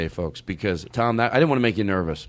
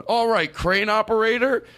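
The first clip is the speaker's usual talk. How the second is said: improv host; 10 semitones higher than usual. Retold or imitated. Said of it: "he kept going".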